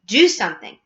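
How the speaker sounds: loud, mildly frantic command; screamed order. A narrator's reading. Missus Gloop urges her husband, loud order. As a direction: push it out forcefully. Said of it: "screamed at Mister Gloop".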